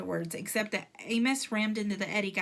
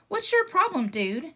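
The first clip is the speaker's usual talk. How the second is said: loud challenge; 8 semitones higher, 6 dB louder than usual. Acted. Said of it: "said Jack".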